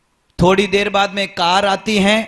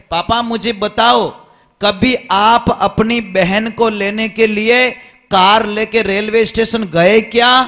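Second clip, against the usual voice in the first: challenging son; 3 semitones higher, 5 dB louder than usual. Retold or imitated. Son challenging father in story.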